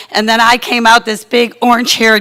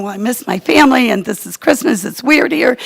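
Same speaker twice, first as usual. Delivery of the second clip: retold sadness; 5 dB quieter than usual. Homesick doctor on Christmas confides in a patient, mock sad. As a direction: imitate a sad, homesick man quietly. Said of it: "he's all sad".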